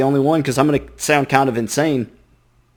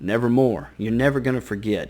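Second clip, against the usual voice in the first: softer, lower, menacing raven voice; raven in his ear; 3 semitones lower, 6 dB quieter than usual. Retold or imitated. Raven taunting the narrator in his ear, soft menace. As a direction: murmur it right into his ear. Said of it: "the raven's right there in his ear".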